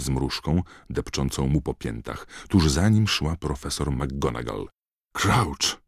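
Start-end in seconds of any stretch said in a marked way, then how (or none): 5.1-5.8 sharp raised cry, higher; Snape's shout. A narrator's reading. Snape bursting into the doorway, shouting. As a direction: shout the name in shock. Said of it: "krzyknął Snape".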